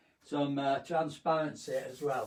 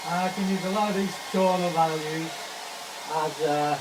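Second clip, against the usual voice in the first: raised voice over a hair dryer; 5 dB louder than usual. Real, not acted. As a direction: speak up over the dryer noise. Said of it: "I'm not talking over the air dryer".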